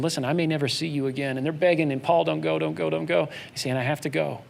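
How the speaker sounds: soft, low and tender; Paul's gentle farewell to church leaders; emotional farewell. Retold or imitated. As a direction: quietly urge friends not to forget. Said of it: "a really emotional moment".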